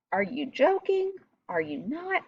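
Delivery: high, incredulous questions; acting out a fed-up student's disbelief; over it. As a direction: pitch it up, as if over it. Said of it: "he's just over it".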